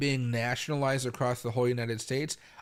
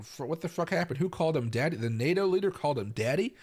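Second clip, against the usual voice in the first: baffled, higher-pitched questioning; incredulous reaction; 4 semitones higher than usual. Retold or imitated. Reacting to a campaign video to viewers, incredulous. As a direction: imitate your own disbelief, pitch climbing at the end.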